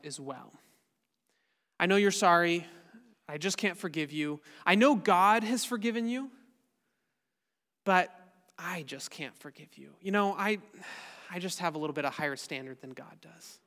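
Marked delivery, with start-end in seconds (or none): 1.8-6.3 louder, mock-sincere acted excuse; sarcastic. Preacher voicing someone who refuses to forgive, sarcastic. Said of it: "I apologize if that sounded sarcastic". 7.8-13.6 sarcastic. Acted. Preacher mimicking someone refusing forgiveness, sarcastic. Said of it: "I apologize if that sounded sarcastic".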